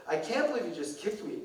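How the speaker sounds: slow, drawn-out mock SoCal teen; valley girl drama. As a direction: stretch out "un-Lutheran" with teen outrage. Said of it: "she's really playing it up".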